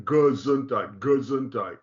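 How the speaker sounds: GESUNDHEIT as guh-ZUN-tight, first vowel reduced; barely-said vowel. Shown as a demonstration. Teacher illustrating a shva, GESUNDHEIT with a barely voiced first vowel. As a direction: say GESUNDHEIT with a tiny uh after the G. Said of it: "it's just barely saying the sound".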